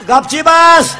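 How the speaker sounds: doctor shouting at the patient to shut up; stern mock yell. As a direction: bark it at the patient.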